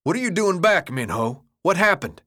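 high, agitated questioning; upset. A narrator's reading. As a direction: demand to know what went wrong. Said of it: "clearly upset".

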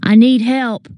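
high, urgent appeal; calling out. A narrator's reading. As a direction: call out urgently for rescue. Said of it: "I called".

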